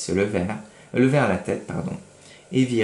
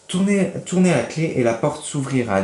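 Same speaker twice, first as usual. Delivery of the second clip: little voice; 5 semitones higher, 3 dB louder than usual. Acted. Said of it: "dit la même petite voix".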